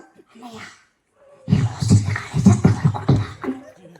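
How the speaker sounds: hushed whisper, unvoiced. Woman telling the pastor she's leaving, in a whisper. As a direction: whisper so the landlord upstairs won't hear. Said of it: "స్లోగా మాట్లాడుతాను".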